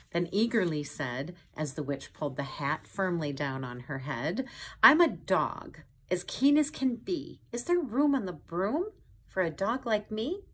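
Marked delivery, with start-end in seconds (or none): 4.8-10.4 keen pup begging for a ride; eager dog voice. A narrator's reading. Dog begs the witch for a seat, eager and high.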